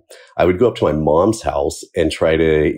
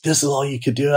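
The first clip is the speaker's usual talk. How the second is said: mock scolding teacher; 9 semitones higher, 4 dB quieter than usual. Teacher belittling a fifth grader, high and mock-stern. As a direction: sneer it down like a teacher. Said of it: "she, she yelled at me".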